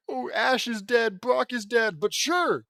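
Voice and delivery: mock deadpan. Mocking the traumatized Dawn.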